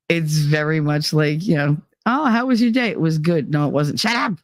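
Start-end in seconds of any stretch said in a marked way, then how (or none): 2.1-4.3 lightly imitated argument ending in a higher retort; mock bickering. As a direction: act out both sides of a petty back-and-forth. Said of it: "constant fighting back and forth".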